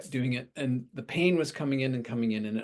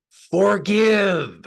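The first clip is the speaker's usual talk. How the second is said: loud, high, drawn-out shout; sudden huge commanding cry; booming shouted command; 9 semitones higher, 15 dB louder than usual. Retold or imitated. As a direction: thunder it out as an otherworldly voice. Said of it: "it was shouted into every cell".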